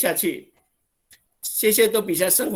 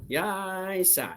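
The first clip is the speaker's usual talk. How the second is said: surprised; 4 semitones higher, 4 dB quieter than usual. Shown as a demonstration. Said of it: "很惊讶".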